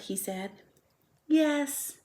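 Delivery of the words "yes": sweet musical voice. A narrator's reading. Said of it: "in her sweet musical voice".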